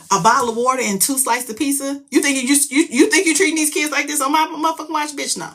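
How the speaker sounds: incredulous high-pitched ranting; indignant outrage. Real, not acted. Parent outraged at the kids' meagre food, indignant. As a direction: build from disbelief into a high, fast protest. Indignant at how kids were fed.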